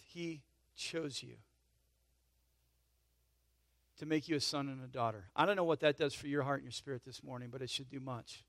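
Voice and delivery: gently and quietly assure them; tender assurance. Real, not acted. Pastor tells congregation God chose them, tender assurance.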